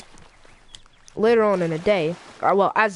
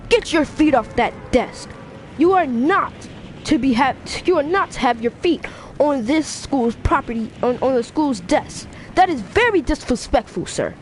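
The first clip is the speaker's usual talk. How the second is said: stern, higher-pitched telling-off; indignant scolding; 4 semitones higher than usual. Acted. Ida telling Bakugo off for feet on desk, indignant scolding. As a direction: scold like an offended rule-keeper.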